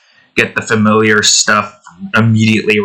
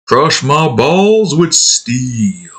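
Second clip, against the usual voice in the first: funny video quote; 3 semitones higher, much slower than usual. Retold or imitated. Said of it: "funny video".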